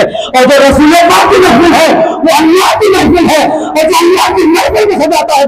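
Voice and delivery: impassioned sermon, climbing in pitch; rising preaching fervour. Acted. Preacher exalting the holy gathering, rising preaching fervour. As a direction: build the exhortation step by step. Sermon builds to full force.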